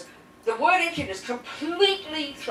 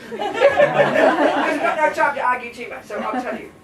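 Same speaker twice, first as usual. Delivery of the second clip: laughing; 3 semitones higher, 5 dB louder than usual. Real, not acted. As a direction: chuckle while explaining. Laughs at own rhetoric.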